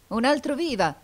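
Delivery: high, loud rallying cry; painter's shout. A narrator's reading. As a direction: call out a cheer to the crowd. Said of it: "gridò il pittore".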